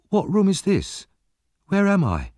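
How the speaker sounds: put-on high, anxious boy's voice; a frightened child waking in a strange room; bewildered boy. A narrator's reading. Oliver waking in a strange room, high and bewildered. Boy wakes confused after fever.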